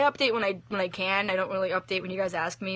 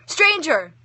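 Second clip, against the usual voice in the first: screaming; 7 semitones higher, 6 dB louder than usual. A narrator's reading. Girl runs screaming.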